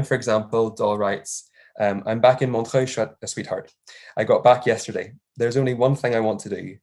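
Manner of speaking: measured academic read-aloud, key words stressed; formal paper reading. Acted. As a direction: read a conference paper out clearly.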